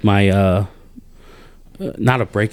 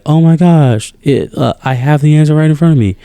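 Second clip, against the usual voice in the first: mock discovery; 3 semitones higher, 4 dB louder than usual. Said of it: "And then you're like".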